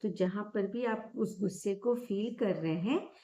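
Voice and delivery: calm, gently softened meditation guidance with long pauses; guided meditation. Real, not acted. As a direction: guide listeners gently into noticing breath and body.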